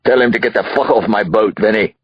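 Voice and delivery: irate boss ordering intruders gone; high-pitched irritated outburst; angry order. Acted. Angry father orders police off boat.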